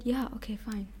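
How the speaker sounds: soft whispered giving in. Retold or imitated. Retelling her answer to the sheikh's video as a soft whisper. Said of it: "And so I said".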